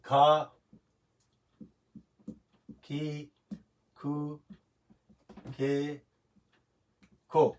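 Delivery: کھا، کھی، کھو، کھے، کھو, each said alone with long pauses; one syllable at a time, ka ki ku ke ko, a beat between each; spaced syllable demo. Shown as a demonstration. Teacher reciting the hiragana k-row for students, one syllable at a time. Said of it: "اس کے بعد".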